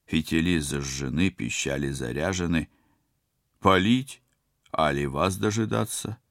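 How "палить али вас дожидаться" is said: calling out. Acted. Soldier calls from door.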